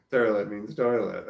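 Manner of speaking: first toilet said as a southern terlet, the second as plain toilet; southern terlet, then the standard toilet; terlet means toilet. Shown as a demonstration. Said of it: "Toilet is pronounced toilet or tourlet".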